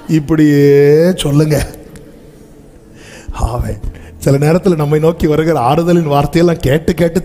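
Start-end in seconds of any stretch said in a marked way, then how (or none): none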